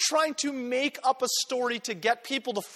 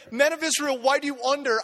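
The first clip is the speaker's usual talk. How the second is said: a touch louder, earnest and open; Peter's earnest address; 3 semitones higher, 4 dB louder than usual. Retold or imitated. Peter to the crowd, a hint of earnest. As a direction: ask the crowd with sincere wonder. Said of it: "when I see Peter say".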